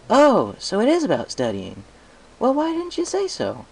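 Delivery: suddenly thrilled little dragon; very high, delighted baby dragon; Spike's voice. Acted.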